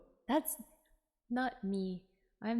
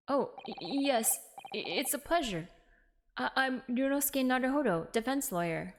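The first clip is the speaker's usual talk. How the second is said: put-on hesitant, stuttering young lawyer; nervous stammer; 3 semitones higher than usual. Young lawyer introducing himself to the governor, nervous stammer. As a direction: trip over the first words politely.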